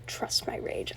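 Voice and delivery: hushed whisper of the line; whispered quote. Shown as a demonstration. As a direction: breathe Trust my rage almost voiceless. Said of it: "I love that quote so much".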